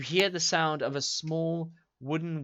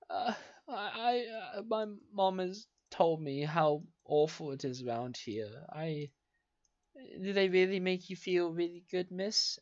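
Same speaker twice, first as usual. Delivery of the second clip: put-on sobbing boy; 6 semitones higher, 5 dB quieter than usual. GM voices sobbing little boy.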